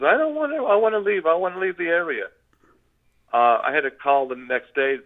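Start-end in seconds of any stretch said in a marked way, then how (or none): 0.0-2.3 high-pitched panicky plea, imitated; petrified. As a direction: act out a scared companion begging to get away. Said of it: "he was petrified".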